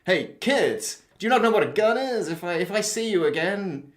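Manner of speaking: slow, swaggering mock hero warning; tough hero threat. Hero threatening the robber, slow mock-tough voice. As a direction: square up to the robber, drawling the threat. Heroic voice from next to him.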